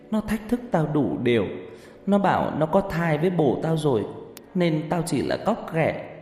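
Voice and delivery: lightly voiced weeping girl; tearful confession. A narrator's reading. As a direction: confess a buried secret while weeping. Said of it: "Nó vừa khóc, vừa lầu bầu kể".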